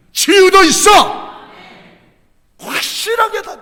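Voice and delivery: loud, high fervent proclamation; preaching at full force. Acted. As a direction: build to a shouting testimony. Climactic sermon proclamation.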